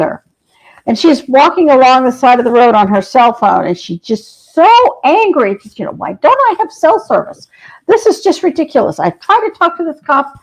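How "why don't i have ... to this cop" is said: annoyed muttering. Retold or imitated. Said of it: "she's muttering to herself".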